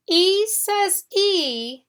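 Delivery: E says E drawn out slowly, both E long; slow, stressed E. Shown as a demonstration. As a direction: stretch each E slowly. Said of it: "at the end of a syllable".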